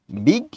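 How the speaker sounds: বিগ cut off as the first syllable of biggan; syllable demo. Shown as a demonstration. Teacher breaking up biggan for students, বিগ said separately. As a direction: say বিগ alone, closing on the g. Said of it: "এইটার উচ্চারণ কিরকম ভাবে করো".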